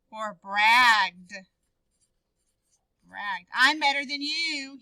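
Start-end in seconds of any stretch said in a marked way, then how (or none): 3.5-4.8 bragging. Shown as a demonstration. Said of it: "he bragged".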